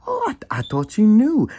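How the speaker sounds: very high, offhand; high imitation of the friend; friend's reply. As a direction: mimic the friend's excuse. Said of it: "I said".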